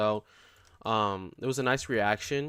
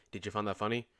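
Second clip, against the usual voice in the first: imitating an emotionless, creepy deadpan; softer mock-monotone question; super monotone; 5 dB quieter, faster than usual. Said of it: "he was super, super monotone. He was like".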